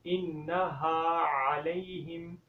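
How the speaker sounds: अलैहिम with a clear ain; correct ain sound. Shown as a demonstration. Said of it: "तो आइन की sound निकालनी है". (अलैहिम में आइन की सही आवाज़)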